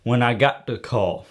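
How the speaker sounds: a touch of hard-boiled detective narration; lightly voiced noir gumshoe, measured delivery; film noir private eye. Detective recounting a phone call to the audience, film noir private eye. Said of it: "That was a little character".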